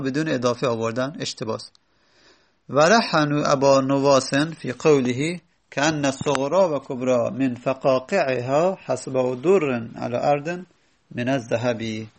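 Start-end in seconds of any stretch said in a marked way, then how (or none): 2.7-12.1 measured, slow recitation of a classical Arabic line; reciting Arabic verse. Shown as a demonstration. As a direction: recite the Abu Nuwas verse slowly, with weight. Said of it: "از ابو نواس".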